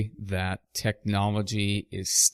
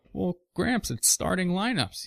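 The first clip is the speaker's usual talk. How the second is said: put-on higher, innocent kid voice explaining the obvious; matter-of-fact kid; 8 semitones higher than usual. Boy explains to his grandfather, innocently matter-of-fact. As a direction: play the earnest boy who thinks it's perfectly normal. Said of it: "I'm like".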